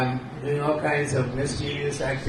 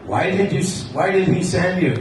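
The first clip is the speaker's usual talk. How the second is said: Vidyavali's voice; 4 semitones higher than usual. Acted. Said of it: "Krishna assumes these voices".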